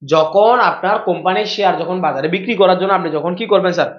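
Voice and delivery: slow, spaced-out explanation; deliberately slow. Real, not acted. Teacher re-explaining share sales from the start, slowly. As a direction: take it slowly, phrase by phrase. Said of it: "আস্তে আস্তে বলতেছি".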